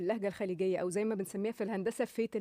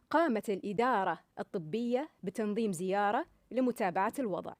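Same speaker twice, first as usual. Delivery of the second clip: light smile, Gulf Arabic open ah endings; gulf arabic accent. Shown as a demonstration. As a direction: say "الإدارة" and "زيارة" ending in a smiling ah. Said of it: "بالطريقة الصح أو بالتون الصح". (لهجة خليجية صحيحة بابتسامة خفيفة)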